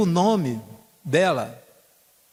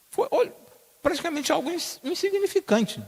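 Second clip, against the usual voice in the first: emphatic preaching. Real, not acted. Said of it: "preacher stresses tiny gift".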